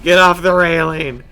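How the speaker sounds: yelling at the game; frustrated yell. Real, not acted. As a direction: bark it at the railing. Yelling at the truck.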